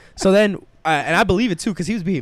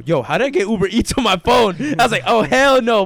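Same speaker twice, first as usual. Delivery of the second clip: indignant surprise; 4 semitones higher, 4 dB louder than usual. Retold or imitated. Finding the app on his phone.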